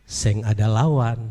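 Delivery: a touch of hammed-up pride; proud boast. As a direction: savour the victory. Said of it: "dengan bangga Yesus bilang".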